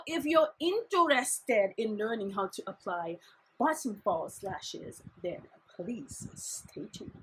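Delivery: pageant contestant. Acted. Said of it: "there's a pageant thing again".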